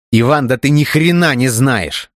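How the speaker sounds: Dmitry bursting in over his friend; interrupting shout. A narrator's reading. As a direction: cut him off forcefully. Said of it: "перебил его Дмитрий".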